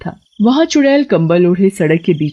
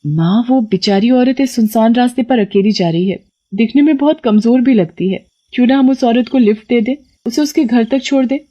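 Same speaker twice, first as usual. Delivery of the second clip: put-on high, eager girlish plea; a kind girl coaxing her parents; young girl pleading; 5 semitones higher than usual. Daughter asking her parents to give the woman a lift, high.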